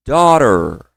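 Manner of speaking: Daughter said dó-rer; model pronunciation. Shown as a demonstration. Teacher models daughter for students. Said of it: "Depois comigo".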